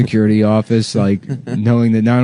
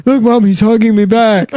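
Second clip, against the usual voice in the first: voicing the son; 10 semitones higher, 4 dB louder than usual.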